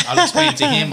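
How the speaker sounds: laughing at his own calm plan. Retold or imitated. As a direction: burst out laughing on it. Retelling his own thought.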